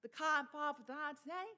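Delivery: Boston accent with dropped R's. Shown as a demonstration. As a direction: drop every R like a Bostonian. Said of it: "our R's are dropped in Boston area".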